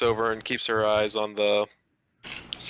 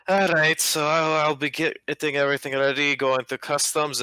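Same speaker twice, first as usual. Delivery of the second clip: gruff dwarf; 5 semitones higher than usual. Acted. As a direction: boom it out like a busy dwarf official.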